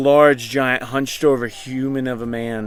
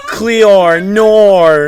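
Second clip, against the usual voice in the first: high, loud mock British accent; clipped British vowels; 7 semitones higher, 11 dB louder than usual. GM teases in a loud mock British accent. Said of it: "that's almost British".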